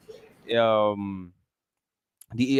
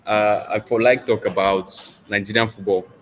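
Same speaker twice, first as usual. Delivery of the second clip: Nigerian Pidgin; 4 dB louder than usual. Pretend. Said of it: "Can you speak with a Nigerian accent?".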